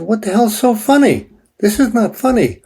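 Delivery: telling the psychic off in mock outrage; retold indignant outburst. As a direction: replay the indignation of being mocked. Retelling angry outburst at psychic.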